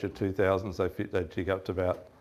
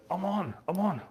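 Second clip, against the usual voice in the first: higher, excited "I'm on" call; mock excited call; 9 semitones higher, 4 dB quieter than usual. Son calling across the boat, mock excited. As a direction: call it out like a hooked fish just hit.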